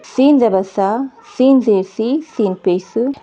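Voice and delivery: measured letter-and-mark reading of "सीन ज़बर सा"; clear articulation drill. Shown as a demonstration. Teacher models the letter seen for learners, articulation drill. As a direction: recite सा, सी, सू with a clean s and long vowel. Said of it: "बिल्कुल सफाई सी आ रही है".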